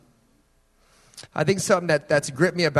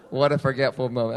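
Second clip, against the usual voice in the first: silly voice; 3 semitones lower than usual. Shown as a demonstration. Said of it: "That was funny".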